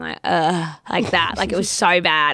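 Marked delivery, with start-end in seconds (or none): 0.2-0.7 open-mouthed "uh", acted out; imitated open-mouthed groan. Host recalling sitting on couch after chili, mock groan. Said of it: "with my mouth open".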